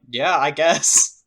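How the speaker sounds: slow, drawn-out half-willing reply; stretched-out, noncommittal mock consent; mock reluctant agreement. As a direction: imitate someone shrugging and giving in. Imitating friends agreeing to something dumb.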